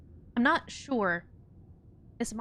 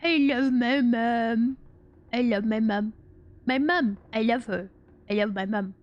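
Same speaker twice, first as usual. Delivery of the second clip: goofy dog declaring devotion; Spudgy. Retold or imitated. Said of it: "So he would say".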